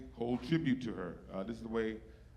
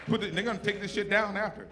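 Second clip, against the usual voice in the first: louder and higher, laughing; excited thanks; 8 semitones higher, 8 dB louder than usual. Real, not acted. Thanking the sign crew excitedly, loud and high. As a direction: shout the thanks with energy.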